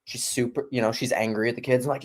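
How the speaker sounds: ordinary talk, nothing marked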